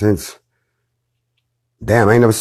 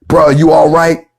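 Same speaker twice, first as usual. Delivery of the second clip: checking on a brother; 6 semitones higher, 5 dB louder than usual. Shown as a demonstration. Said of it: "ask the bruh".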